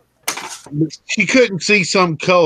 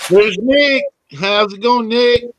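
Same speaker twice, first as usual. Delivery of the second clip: bright, raised greeting voice; excited greeting; 6 semitones higher, 4 dB louder than usual. Real, not acted. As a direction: greet him happily as he joins. Greeting friend joining the call.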